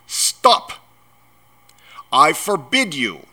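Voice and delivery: high, loud, panicky yell; blustering shouted ban; yelled order. A narrator's reading. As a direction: yell to cut him off. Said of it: "yelled Uncle Vernon".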